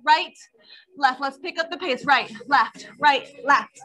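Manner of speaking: counting steps while jogging in place; marching while talking. Real, not acted. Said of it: "jog it out here".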